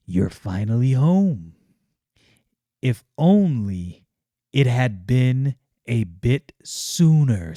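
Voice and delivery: put-on a lightly menacing old villain. Magus Numite greets Yaira over a body, slow and sinister. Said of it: "And Magnus Numite says".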